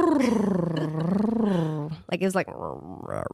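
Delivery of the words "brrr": stomach growl noise. Retold or imitated. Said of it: "stomach is growling".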